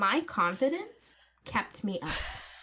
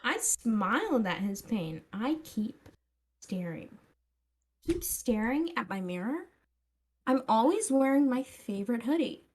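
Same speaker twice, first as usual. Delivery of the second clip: put-on Valley girl accent. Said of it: "it didn't like the Valley Girl accent".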